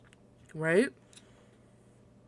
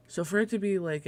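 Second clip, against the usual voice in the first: ordinary talk, nothing marked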